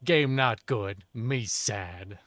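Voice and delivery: loud, slow broken-English lament; mock caveman plea. Player whining to game developers, mock caveman plea. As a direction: plead like a simple-minded caveman, loudly.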